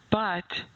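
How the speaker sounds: a weighty, set-apart BUT; emphatic BUT. Acted. Host voicing the listener's objection, emphatic BUT. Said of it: "with a capital B".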